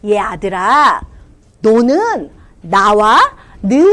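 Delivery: slow, tender fatherly voice; gentle father. Acted. Father comforting his angry older son, tender.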